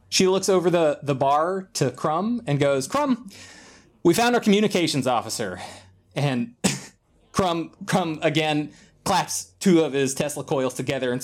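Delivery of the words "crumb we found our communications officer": high call across a bar. Acted. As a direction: sing out the name to summon someone. Captain calls across the bar.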